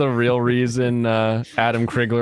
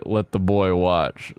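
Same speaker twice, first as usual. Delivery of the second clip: quoted catchphrase; 7 semitones lower, slower than usual. Retold or imitated. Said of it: "if I ever say".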